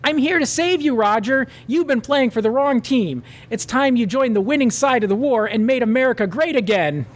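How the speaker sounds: high, grand hero voice; hammed-up vigilante addressing his captive; mock superhero. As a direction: proclaim it like a caped savior. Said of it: "a caped figure".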